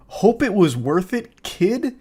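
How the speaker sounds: rising incredulous repeat; echoing his words in disbelief; disbelieving echo. Real, not acted. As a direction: repeat it in disgust. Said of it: "God, sickening".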